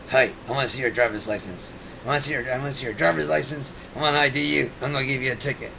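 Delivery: mock a pushy cop asking for papers; imitating Officer Burks. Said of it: "Officer Burks used to come up".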